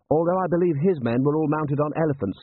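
tactful lieutenant. A narrator's reading. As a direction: deferentially correct your commander. Adjutant tactfully correcting his general.

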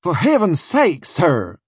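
high, urgent plea; pleading cry. A narrator's reading. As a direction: cry out for mercy. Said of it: "I cried".

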